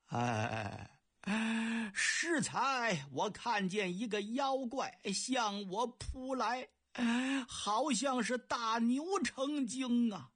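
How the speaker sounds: slow, wavering emperor recalling a monster; lingering fright in a hint of a royal voice; emperor still shaken. (杨广心有余悸地说)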